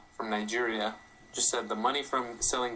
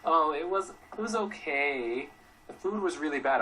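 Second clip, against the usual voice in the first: lukewarm retold complaint; 3 semitones higher than usual. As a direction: imitate a grudgingly unimpressed date. Imitates complaining date, lukewarm.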